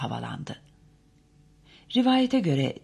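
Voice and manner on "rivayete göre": plain reading voice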